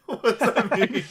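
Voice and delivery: high, loud incredulous question; loud, high-pitched astonishment; amused bafflement. Real, not acted. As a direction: burst out in real disbelief, amused. Baffled laughter at unknown phrase.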